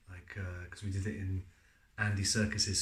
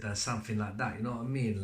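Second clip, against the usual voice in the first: lightly put-on London street-slang accent; a hint of a comic wannabe-gangster accent; imitating his own botched accent mash-up; Ali G. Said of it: "I sounded like Ali G".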